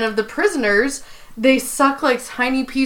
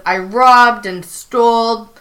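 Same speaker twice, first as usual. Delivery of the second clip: Prison Mike. Retold or imitated. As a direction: confess as a mildly voiced New York convict. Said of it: "really bad New York accent".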